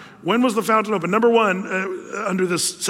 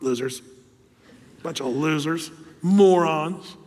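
smug muttering; 3 semitones lower, slower than usual. Retold or imitated. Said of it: "looking at the people going".

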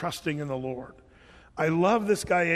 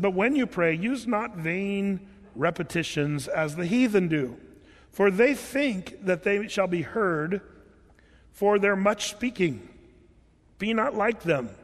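scripture reading. Acted. Reads Matthew six in King James.

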